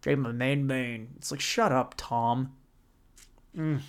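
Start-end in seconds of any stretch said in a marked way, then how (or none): 0.0-1.1 mocking dumb kid. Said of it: "middle schooler who heard his dad".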